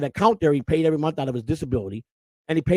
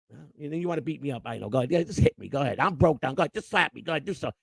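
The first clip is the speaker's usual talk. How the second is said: low-key, softer goading; self-pitying goading; 3 semitones lower, 6 dB quieter, faster than usual. Retold or imitated. Father to his scolding son, quiet self-pitying dare. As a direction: mutter it like a beaten man daring someone.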